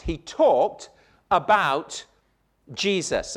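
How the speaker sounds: each word set apart with pauses; "He talked" ... "about" ... "Jesus" spaced out. Shown as a demonstration. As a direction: give every word its own weight. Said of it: "every word counts here".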